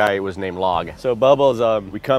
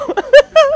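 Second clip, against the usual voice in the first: loud laugh; 15 dB louder than usual. Real, not acted. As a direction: burst of high, loud laughter. Laughing at the story.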